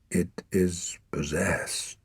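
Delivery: slow, voiceless whisper of a dying man. A narrator's reading. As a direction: barely breathe the words out. Dying father whispers warning.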